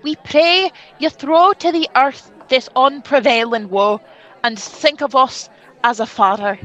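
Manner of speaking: lightly voiced regal stepfather; King Claudius. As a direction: play the new king offering hollow comfort.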